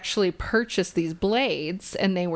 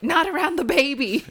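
higher-pitched mock scolding; higher, lightly acted objection; retold refusal; 9 semitones higher than usual. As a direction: imitate a protective mom putting her foot down. Stepmom's retold refusal to husband.

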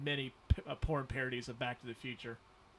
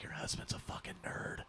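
imitated confidential whisper; 8 dB quieter than usual. Somebody whispering to the speaker's wife about him, whispered. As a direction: whisper it like a catty aside behind someone's back. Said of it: "somebody will whisper to my wife".

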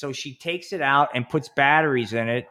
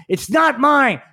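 high, loud panicked denial; flustered denial; 12 semitones higher, 6 dB louder, slower than usual. Retold or imitated. Businessman at airport security denying the vibrator, panicked.

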